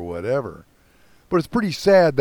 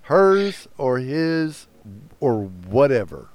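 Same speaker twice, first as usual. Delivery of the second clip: exasperated; 2 semitones higher, much slower than usual. Real, not acted. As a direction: stretch out the exasperation. Exasperated retelling.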